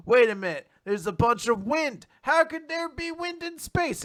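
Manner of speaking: high-pitched, rising disbelief; mock astonishment. Acts character's puzzled discovery.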